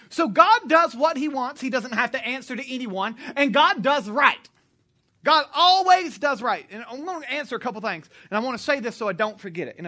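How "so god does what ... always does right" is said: loud, slow, hammering each claim home; full-force preaching. Acted. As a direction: preach it big and slow to the crowd.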